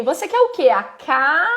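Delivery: pergunta mais aguda, parando em "ca-"; palavra incompleta. Shown as a demonstration. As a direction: estique "ca-" e deixe no ar. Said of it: "você deixa pra ela completar". (corte em "ca-" para a criança completar)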